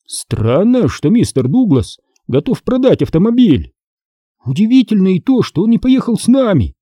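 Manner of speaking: lightly voiced curious boy. A narrator's reading. Son to dad, puzzled about seller, lightly voiced boy.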